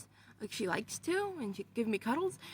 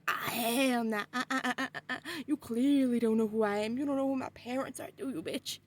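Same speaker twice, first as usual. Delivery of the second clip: tough taunt; 3 dB louder than usual. Retold or imitated. Taunting the creature while strangling it.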